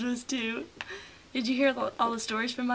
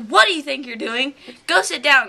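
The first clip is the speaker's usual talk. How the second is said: scolding teacher; 9 dB louder than usual. Retold or imitated. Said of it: "she's like".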